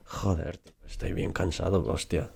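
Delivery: a light imitation of a Castilian speaker; Spain Spanish accent. Shown as a demonstration. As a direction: swear casually like someone from Madrid. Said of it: "in Spain it will be a little bit more like".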